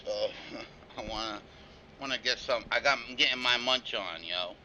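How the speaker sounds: talking with a mouthful; words around a bite of food; chewing while talking. Real, not acted. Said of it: "I'm munching".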